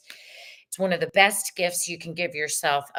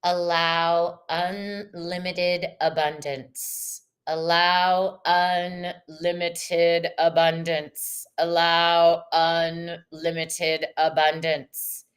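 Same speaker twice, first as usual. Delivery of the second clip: slow, even affirmation said three times; 3 semitones lower, much slower than usual. Shown as a demonstration. Reading the card aloud as a slow affirmation. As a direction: let each word land slowly. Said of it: "popped out of Brittany's deck".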